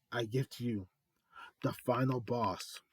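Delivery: talking through a mouthful; words round a bite of food; mouth full. Real, not acted. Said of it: "I had something in my mouth".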